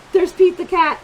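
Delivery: put-on a little discovery for the kids; excited spotting; delighted gasp. Gasp spotting Pete in picture.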